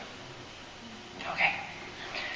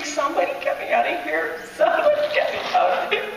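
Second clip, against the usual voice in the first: screaming for help; 7 semitones higher than usual. Retold or imitated. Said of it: "and I was screaming".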